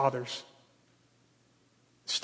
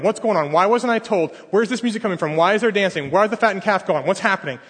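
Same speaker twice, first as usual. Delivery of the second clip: louder, higher demanding questions; indignant questions; 3 semitones higher, 4 dB louder than usual. Retold or imitated. Older son demanding answers from the servant, indignant and loud. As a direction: fire question after question at the servant.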